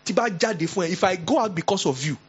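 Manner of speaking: scolding another woman high and outraged; mock indignant neighbour. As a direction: put her in her place.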